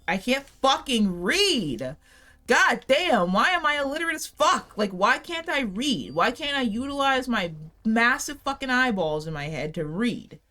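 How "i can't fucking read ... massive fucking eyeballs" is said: loud, higher, exasperated rant at herself; frustrated outburst. Real, not acted. Streamer fumbling an item description, frustrated outburst. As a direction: vent it slowly, fed up with her own eyes. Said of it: "that shit pissed me off".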